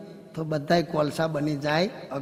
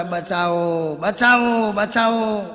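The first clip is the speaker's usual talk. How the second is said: mock cry for help; 3 dB louder, much slower than usual. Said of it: "પેલી બેન રાડો રાડ પાડે".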